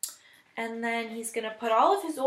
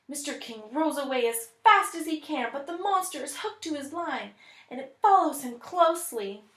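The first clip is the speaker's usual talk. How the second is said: lively, higher read-aloud of the chase; excited story narration; 3 semitones higher than usual. Acted. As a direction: build the tension for the class. Teacher reads story aloud.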